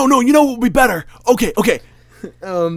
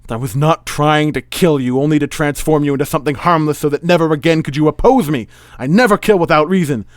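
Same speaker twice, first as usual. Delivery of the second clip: loud, raised-pitch theatrical declaiming; indignant villain; 5 semitones higher, 8 dB louder than usual. Acted. Magician defending his motives to his rival, indignant declaiming. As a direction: protest grandly as a stage villain.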